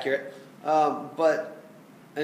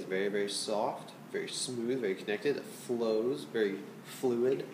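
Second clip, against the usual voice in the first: hushed, lower and softer to model piano; soft, smooth delivery; 5 semitones lower, 6 dB quieter than usual. Shown as a demonstration. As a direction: lower and softer, gently flowing. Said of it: "Doesn't go above piano dynamic".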